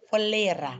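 เฟลระ with a distinct F sound before L; clear F first. Shown as a demonstration. Teacher models the firmer version, clear separate F. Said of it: "น้องต้องออกฟอฟัน".

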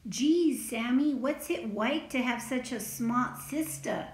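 lightly voiced wide-eyed little tagalong; a hint of an eager small child; young tagalong character. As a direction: ask like an admiring little kid, lively. Little Tagalong Allie's character voice in story.

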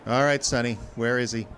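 tough-guy grilling; tough demand. Acted. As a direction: lean on the kid, demand an answer. Confronting the tail.

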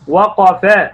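المعلم drawn out very slowly, each sound clear; slow demo reading. Shown as a demonstration. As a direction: stretch every letter of المعلم for the class. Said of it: "أما أقول كده". (قراءة بطيئة جدا)

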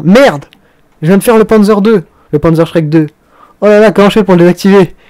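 hammed-up dismay; mock panic. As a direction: play a gamer realizing a blunder, mildly panicked. Voices a player's panic after misclick.

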